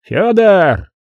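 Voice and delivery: high, drawn-out name as signal; commanding call. A narrator's reading. Commander signalling his archer to shoot, calling out.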